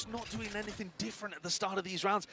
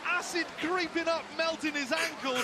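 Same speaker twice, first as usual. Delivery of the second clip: slow and high, savouring it; dramatic slow call; 8 semitones higher, much slower than usual. Real, not acted. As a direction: stretch out every word. Caster savours the replay slowly.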